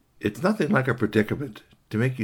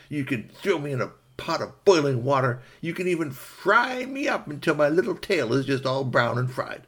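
lightly voiced rabbit, a bit higher; resigned pleading rabbit; 4 semitones higher than usual. Rabbit surrendering to fox, mildly pleading. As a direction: give in, then plead.

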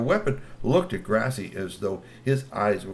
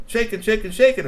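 rising high excited shaking; 11 semitones higher, 6 dB louder than usual. A narrator's reading. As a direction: pitch up on each shaking. Branch shaking.

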